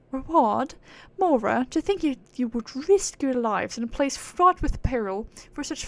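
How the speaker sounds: haughty aristocratic British; British accent. Acted. Proud being scorning mortals for chasing reward, haughty British accent. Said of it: "British accent like the fucking aristocrats".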